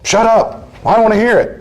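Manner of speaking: high, sharp dismissal; acted shutting down. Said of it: "Suppress their expressions of feelings".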